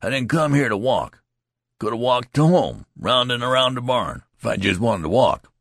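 high, loud exasperated protest; young recruit insisting he came to fight; indignant protest. Acted. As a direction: hammer the point home. Youth protesting angrily.

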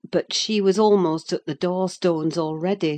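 ordinary talk, nothing marked

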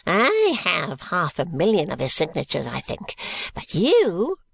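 lightly voiced cranky old schemer; grumble, then pounce on the last word; a touch of old-man temper; irritable old man. Old man's outburst continues.

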